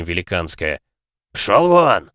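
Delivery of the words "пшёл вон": very loud furious bark. A narrator's reading. Lord hurling the guest out, loud bark. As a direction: throw him out with a bark.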